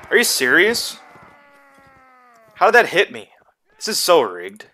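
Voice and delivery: loud, high, outraged disbelief; raging gamer. Real, not acted. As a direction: yell at the screen in disbelief. Gamer hit unfairly, rages.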